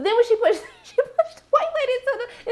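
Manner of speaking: words broken up by real laughter; can't keep a straight face telling it; giggling mid-sentence; laughing through it. Real, not acted. Laughing while retelling.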